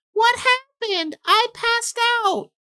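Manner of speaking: whining, whiny, very high-pitched voice. Retelling a witness's testimony about the defendant: mock whiny high-pitched voice. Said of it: "It was in a whiny, high-pitched voice".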